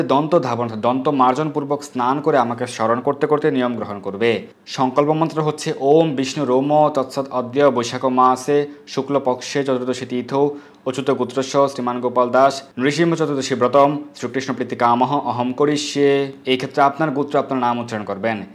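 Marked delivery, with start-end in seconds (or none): 5.8-16.3 slow, measured chanting of verse; a slow, devout recital of scripture; Sanskrit recitation. Acted. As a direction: intone it like a priest. Recites sankalpa mantra.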